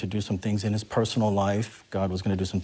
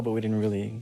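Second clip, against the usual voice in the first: usual speaking voice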